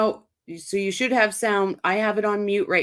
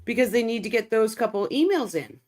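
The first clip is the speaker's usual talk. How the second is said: chewing while talking; mouth full. Real, not acted. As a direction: talk through a mouthful. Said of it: "Sorry, guys, I was chewing".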